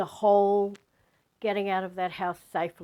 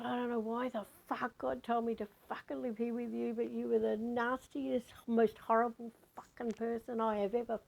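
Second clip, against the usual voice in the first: mock screaming tirade, higher but softer; angry swearing rant; 3 semitones higher, 5 dB quieter than usual. Telling off her housemate in a retold, held-in angry rant. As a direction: retell a furious rant without the volume. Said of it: "screaming at the top of my lungs".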